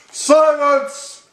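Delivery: high, loud angry bark; barked command. A narrator's reading. King silencing the complaining turtle with a loud bark. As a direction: bark it to shut him up. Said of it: "barked back".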